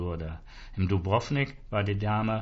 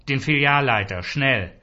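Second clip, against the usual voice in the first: louder, higher indignant demand; fuming; 3 semitones higher, 6 dB louder than usual. A narrator's reading. Arno demanding the branch manager at once, fuming. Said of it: "Arno schäumte".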